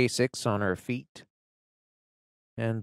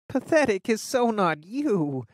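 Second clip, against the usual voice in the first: with a sniff; 10 semitones higher, 4 dB louder than usual. A narrator's reading. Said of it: "she says with a sniff".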